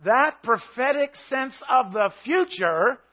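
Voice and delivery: loud, full-force preaching that swells as it goes; preaching shout. Real, not acted. Preacher shouting his faith at the congregation, loud and intense. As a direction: shout the promise over the congregation. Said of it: "I'm shouting at you".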